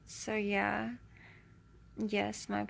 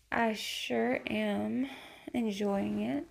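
sexy voice; slower than usual. Real, not acted. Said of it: "I have a really sexy voice".

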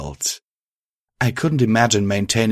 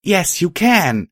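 encouraging; 10 semitones higher, 3 dB louder, slower than usual. A narrator's reading. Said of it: "Violet and Patch said".

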